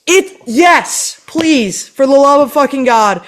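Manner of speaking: high, desperate mock pleading; exasperated pleading. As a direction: beg him to just throw it out. Begging security to toss it.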